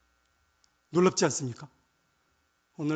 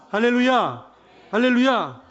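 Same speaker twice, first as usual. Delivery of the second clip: loud, higher exclamation; rousing hallelujah call; 5 semitones higher, 10 dB louder, slower than usual. Real, not acted. Preacher rallying the congregation after the confession, loud call. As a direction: call it out to the whole room.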